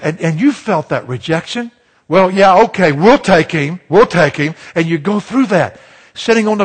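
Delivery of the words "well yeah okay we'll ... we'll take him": louder, acted-out grudging acceptance; reluctant team picker. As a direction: imitate a captain settling for the last kid. Acts out captains picking him last.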